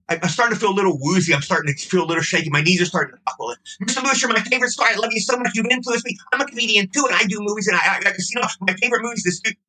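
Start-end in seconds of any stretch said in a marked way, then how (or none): 3.8-9.6 higher, quick, gushing praise to a silent star; gushing nervous fan. Retold or imitated. Fan babbling praise at a silent Jerry, higher and rushed. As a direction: pile on the compliments, getting desperate.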